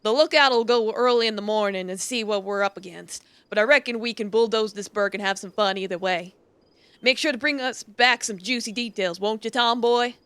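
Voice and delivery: bold cowboy leader laying out the raid; rally the gang with swagger; outlaw boss. Acted. Gang leader dialogue read.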